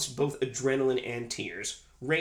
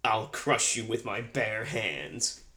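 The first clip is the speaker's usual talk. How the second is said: menacing movie villain; 2 semitones lower, slower than usual. Retold or imitated. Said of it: "When we quote this movie".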